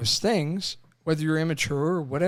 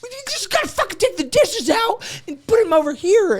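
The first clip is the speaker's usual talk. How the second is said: much higher, louder, hammed-up know-it-all; raised, impatient mock instructions; mock exasperated husband; 5 dB louder than usual. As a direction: lecture her like the fix is obvious. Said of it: "you're like".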